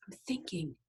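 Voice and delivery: soft, menacing hush; real quiet voice. A narrator's reading. Gang boss silencing Loretta, real quiet voice. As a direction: drop it right down, quietly in control. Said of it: "Iggy says in this real quiet voice".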